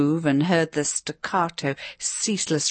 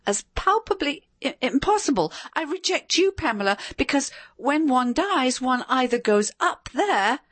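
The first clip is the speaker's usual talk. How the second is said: quavering voice; 8 semitones higher than usual. A narrator's reading. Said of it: "in a slightly quavering voice".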